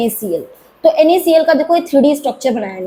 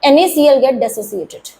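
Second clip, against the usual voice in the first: slow contrast; much slower than usual. Shown as a demonstration. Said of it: "water को dissociation नहीं बोलेंगे".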